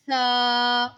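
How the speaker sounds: सा said softly, no whistle; soft सा with no hiss; soft saa. Shown as a demonstration. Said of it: "सा को भी नरमी से अदा करना है". (सा नरमी से, बिना सीटी के)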